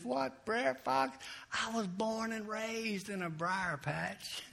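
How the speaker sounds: high, slow gleeful gloat with laughter; laughing taunt. Acted. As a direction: laugh at the fox from the briars. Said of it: "he's kicking and he's laughing".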